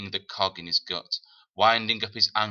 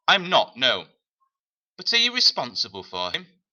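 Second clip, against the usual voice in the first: louder, curt, offended reply; a hint of the hard woman's indignation; bristling woman; 4 semitones higher, 6 dB louder than usual. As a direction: snap back with bristling pride. Woman and man exchange.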